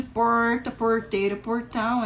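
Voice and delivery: retroflex R in porta, porteiro, portão; Portuguese words with an English-like R. Shown as a demonstration. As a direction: curl the R in each "port-" word. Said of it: "é o R retroflexo".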